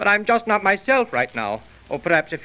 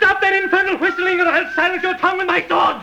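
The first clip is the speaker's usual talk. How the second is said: furious threat; 11 semitones higher than usual. Acted. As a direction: shout him down, sword in hand. Alan threatens William.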